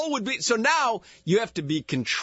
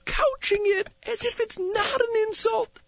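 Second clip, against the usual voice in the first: nature documentary; 11 semitones higher than usual. Pretend. Mock wildlife narration of cohost.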